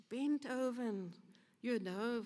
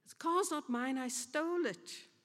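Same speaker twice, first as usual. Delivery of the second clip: put-on sweet old lady; 4 semitones higher than usual. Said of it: "sweetly said to him".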